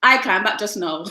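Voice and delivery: closer Caribbean attempt; attempted Caribbean accent. Shown as a demonstration. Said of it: "a little better".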